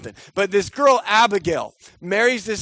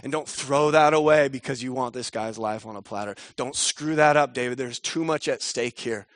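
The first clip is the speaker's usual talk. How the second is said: lower, softer calm plea; pleading gently; 6 semitones lower, 3 dB quieter than usual. Retold or imitated. Abigail calming David with food, lower soft plea. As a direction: talk him down softly. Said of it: "to David and say".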